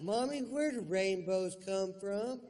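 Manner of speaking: put-on high child's voice; lightly voiced small child; little kid. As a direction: ask sweetly like a small child. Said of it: "I was like".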